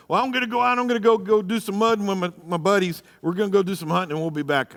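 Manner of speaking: mock careless husband. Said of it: "guys are notorious for that".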